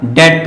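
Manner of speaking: डेट said as "det" with no b sound; silent b. Shown as a demonstration. Teacher showing students डेट with a silent b. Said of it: "बी word silent होगा".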